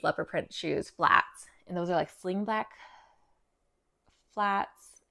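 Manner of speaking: breathless, short of air; talking out of breath. Real, not acted. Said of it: "Am I, like, out of breath".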